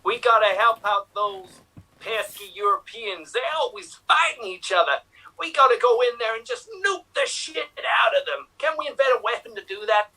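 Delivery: 1940s speaker. Acted. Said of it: "as if it is the nineteen forties".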